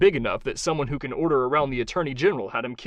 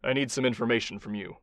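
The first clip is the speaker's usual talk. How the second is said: calm; 3 dB quieter than usual. Acted. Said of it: "Kai said calmly".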